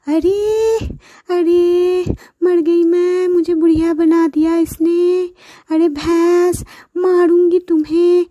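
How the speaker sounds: high shrill wail of dismay; shocked old woman. Acted. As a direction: cry out at being turned old. Sister turned old woman.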